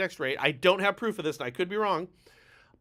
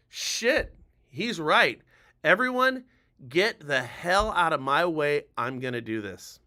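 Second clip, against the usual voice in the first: determined convert; 3 semitones lower, slower than usual. Acted. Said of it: "Some of you are watching this going".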